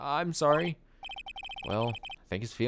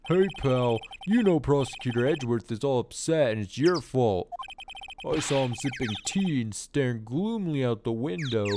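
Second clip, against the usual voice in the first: Detective Gumshoe voice. Acted. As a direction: bark it like a blunt detective. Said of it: "my Detective Gumshoe voice".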